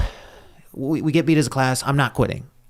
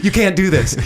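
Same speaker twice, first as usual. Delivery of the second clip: higher, pleading protest; mock-pleading, higher and louder; retold pleading; 8 semitones higher, 4 dB louder than usual. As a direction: beg her like a scared kid. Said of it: "I started, like, pleading".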